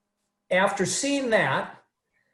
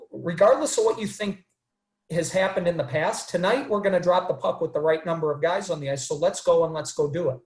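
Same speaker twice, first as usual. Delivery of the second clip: calm manner, retold. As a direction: imitate a referee calmly closing the matter. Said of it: "saying in a calm manner".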